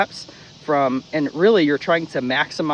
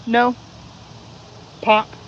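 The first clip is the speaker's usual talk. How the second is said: firm correction; 7 semitones higher than usual. Shown as a demonstration. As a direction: snap out the correction. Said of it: "I would usually just go".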